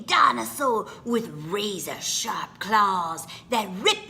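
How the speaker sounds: put-on small child begging mama, then a spooky hush; pleading child. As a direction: play the child testing mama's love.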